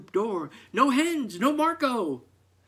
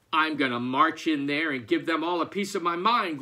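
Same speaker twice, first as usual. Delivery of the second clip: grumbled; 6 dB louder, faster than usual. Acted. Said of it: "grumbled Farmer McPhee".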